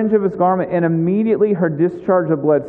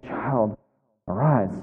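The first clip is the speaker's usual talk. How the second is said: gentle calling; 7 semitones lower, 6 dB quieter, slower than usual. Acted. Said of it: "he called, saying".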